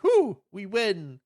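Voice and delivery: high, stretched-out mock cheer; mock celebration. Kids escaping the dragon, drawn-out mock cheer. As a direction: draw out a relieved whoop. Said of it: "they're like".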